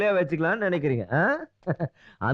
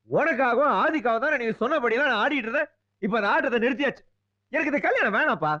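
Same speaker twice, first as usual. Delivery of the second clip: raised, pleading protest to father; 4 semitones higher than usual. Acted. Son pleading with his father to stop the wedding, raised protest. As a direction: push back hard at the father.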